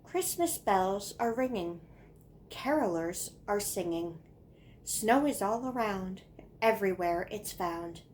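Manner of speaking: singsong rhyming recitation; poem reading. Acted. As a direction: recite short couplets, pausing after each line. Reads childhood poem aloud.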